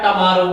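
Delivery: टमारो with a short neutral a after t, not u; टमारो as ta-ma-ro, the u softened to a light a; pure pronunciation. Shown as a demonstration. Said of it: "जो pronunciation वो निकलता है".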